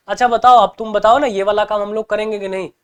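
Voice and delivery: keen friend nudging for a yes; eager friend. Retold or imitated. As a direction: coax an answer out of a friend. Friend eagerly asking in example.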